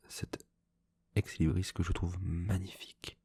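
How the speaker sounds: hushed admiring whisper; library whisper. Real, not acted. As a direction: whisper like revealing a treasure. Shows the bookplate in a whisper. (chuchotement admiratif)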